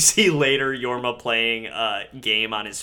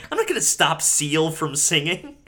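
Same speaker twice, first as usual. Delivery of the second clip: raised-pitch mock indignation; indignant refusal; 5 semitones higher, 4 dB louder than usual. Manager refusing to stop the music, mock indignant. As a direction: refuse it as if the request is absurd.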